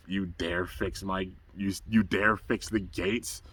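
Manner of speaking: a hammed-up cartoon villain's menace; menacing villain. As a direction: growl the threat slowly. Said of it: "he was like".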